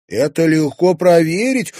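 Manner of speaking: loud, high eager exclamation; a girl eagerly exclaiming to the sheriff. A narrator's reading. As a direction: blurt out the idea triumphantly. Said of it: "воскликнула Луиза".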